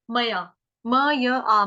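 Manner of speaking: मया broken into म य आ, slow; syllable split. Shown as a demonstration. Teacher breaks the word into sounds for students, slow syllables. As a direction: spell out मया as म, य, आ. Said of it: "इसको गलती से मैया नहीं बोलेंगे".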